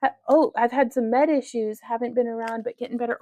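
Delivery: lightly voiced high little figure; voiced character. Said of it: "He says".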